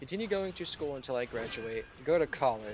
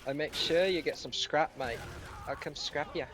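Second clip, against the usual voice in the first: lightly mocked Brummie challenge to a scrap; Birmingham accent; 2 semitones higher than usual. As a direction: imitate a buddy's Birmingham accent. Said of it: "thick Birmingham accent".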